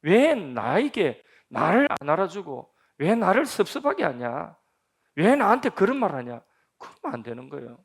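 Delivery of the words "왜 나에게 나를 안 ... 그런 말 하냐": loud, higher whiny grievance; hurt church member's loud complaint; aggrieved complaint. Retold or imitated. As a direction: complain like someone who feels slighted. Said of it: "내가 누군데?".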